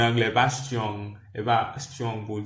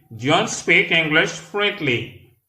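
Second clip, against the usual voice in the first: slow but more connected, pitched higher; a little quicker; 4 semitones higher, slower than usual. Shown as a demonstration. Teacher repeats an English sentence for learners, a bit quicker. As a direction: model the sentence less drawn out, words linked. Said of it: "Là, nous parlons plus rapide".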